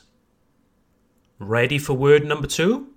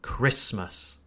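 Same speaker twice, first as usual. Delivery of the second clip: "Christmas" as KRISS-məs, low and falling; first-syllable stress; 4 semitones lower, 4 dB quieter than usual. Shown as a demonstration. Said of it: "place emphasis on the first syllable".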